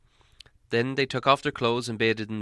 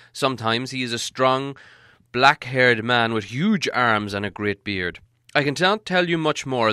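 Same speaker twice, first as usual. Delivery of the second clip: put-on raised, grand old wizard voice; Gandalf voice; 4 dB louder than usual. Wizard describes Beorn.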